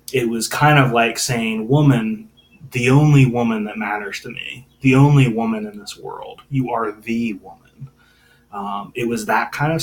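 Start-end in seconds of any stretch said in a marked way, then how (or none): 1.7-7.9 deep endearment. Retold or imitated. Pastor reading Jesus adoring his mother, tender and sincere. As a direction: say woman like she's the only one in the world. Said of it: "was actually a term of deep endearment".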